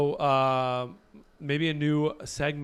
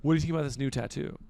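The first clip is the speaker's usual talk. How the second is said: put-on Australian accent; much faster than usual. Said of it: "in a very beautiful Australian accent".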